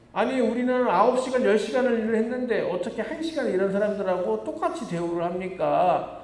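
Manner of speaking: hammed-up grumbling about unfair pay; indignant complaint. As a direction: play the wronged worker, pleading his case. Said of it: "라고 불평을 하는 것입니다".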